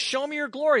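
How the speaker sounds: eager plea. Retold or imitated. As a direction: push Moses' bold ask. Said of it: "Here he says".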